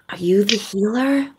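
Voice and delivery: unvoiced whisper of a wary siren. Siren whispering to the healer Scumbria. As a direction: whisper the question like a sea creature.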